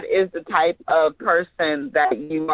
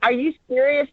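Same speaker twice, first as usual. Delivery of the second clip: incredulous; 5 semitones higher, faster than usual. Shown as a demonstration. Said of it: "It's like you're incredulous".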